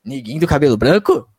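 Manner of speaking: hammed-up shocked questioning, rising at each end; mock incredulous. Retelling critics' reaction to his words, mock incredulous. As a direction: echo the accusation as if scandalised.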